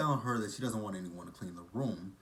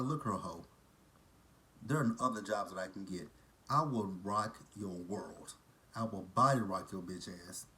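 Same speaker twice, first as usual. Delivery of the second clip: suddenly serious; 2 semitones lower than usual. Acted. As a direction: warn her in dead earnest, drawing it out. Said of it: "I got that serious that quick".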